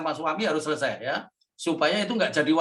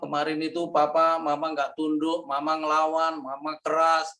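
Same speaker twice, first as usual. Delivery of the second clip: subdued, evenly paced confession; retold contrite apology. Wife phones husband to apologise before preaching, subdued and contrite. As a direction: confess fault after fault in a measured voice.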